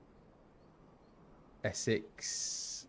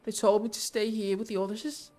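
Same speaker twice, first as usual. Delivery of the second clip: put-on high-pitched Liverpool child; small, high Scouse voice; Liverpool accent; 12 semitones higher, 5 dB louder than usual. A Scouse child asking a stranger after missing parents, Liverpool accent. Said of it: "She's gonna be from Liverpool".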